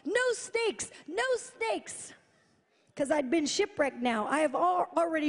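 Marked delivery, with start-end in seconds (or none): 0.0-2.1 pleading prayer. Retold or imitated. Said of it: "I said to God".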